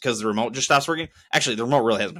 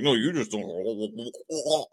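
slow, softer condescending drawl, stretched out; sneering slow put-down, quieter; mocking drawl; 3 semitones lower, 7 dB quieter, much slower than usual. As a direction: mimic a smug agent dragging every word. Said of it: "They're like".

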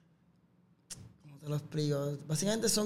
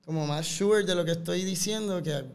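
spanglish. Real, not acted. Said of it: "me quedo hablando Spanglish".

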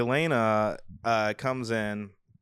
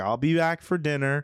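charismatic stepdad; 5 semitones higher than usual. Acted. Swordsman promises dinner while being hauled away, raised charismatic imitation. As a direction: call it out with put-on charm. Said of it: "he's even being charismatic then".

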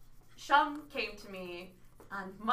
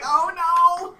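high, loud "oh no" through laughter; laughing dismay; 9 semitones higher, 15 dB louder than usual. Retold or imitated. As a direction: giggle in horror. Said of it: "And I'm like".

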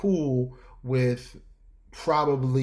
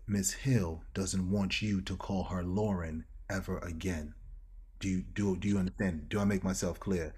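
lower, softer, hushed stern warning; 5 semitones lower, 7 dB quieter than usual. Retold or imitated. Security guard quietly warning the employee, hushed and stern. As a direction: murmur it low like security delivering a warning. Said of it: "whispers in my ear".

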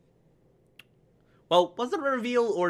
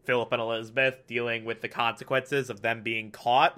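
low, soft, quiet wondering aloud; half-hushed anxious thought; hushed inner worry; 6 semitones lower, 6 dB quieter than usual. Retold or imitated. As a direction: murmur the dread to yourself. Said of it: "when you're like".

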